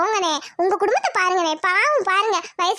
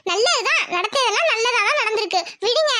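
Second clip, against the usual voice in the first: laughing reassurance; 2 semitones higher than usual. Acted. Neighbour cheering up grieving father.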